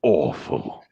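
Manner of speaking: slow, mock-sorry drawl; Scar. Scar brushing off Zazu, slow mock regret. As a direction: stretch out the fake apology. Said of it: "Scar from Lion King".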